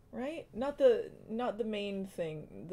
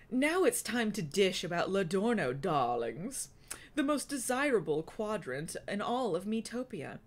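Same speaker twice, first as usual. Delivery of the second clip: lightly voiced sassy drag queen narrator. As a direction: dish it out with a hint of drag queen sass. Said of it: "It sounds like an old drag queen".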